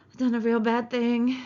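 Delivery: lightly voiced childlike dismay; frightened simple man. Man alone with the body, lightly dismayed. Narrator voicing frightened Lennie.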